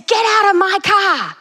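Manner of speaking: slow, high, loud hammed-up command with a put-on voice; mock stern demand. Old lady ordering the men out of her car, loud mock command. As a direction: bark it like an old lady with a gun.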